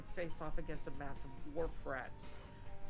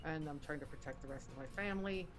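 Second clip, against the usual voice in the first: speaking through a face mask; muffled, mask over the mouth. Real, not acted. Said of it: "I apologize for the muffled sound and the mask".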